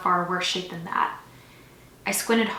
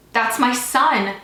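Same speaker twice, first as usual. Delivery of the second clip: loud, higher, drawn-out plea; desperate shouting; 4 semitones higher, 7 dB louder, much slower than usual. A narrator's reading. Father dragged away from his son, desperate shouting. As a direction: cry out for your child, slowly. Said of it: "The shouts continue".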